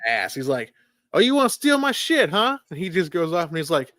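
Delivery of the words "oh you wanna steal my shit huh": high, loud accusing movie quote; mock angry confrontation. Gilmore confronting a kid with his bag, mock angry. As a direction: pounce on the kid with mock outrage.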